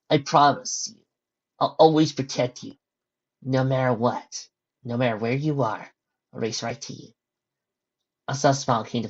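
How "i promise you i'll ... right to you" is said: tender promise. Acted. Dash promises protection softly.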